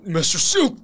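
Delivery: loud, high call of the name; distressed cry. Acted. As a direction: cry out to your wounded master. Transformed character cries to his master.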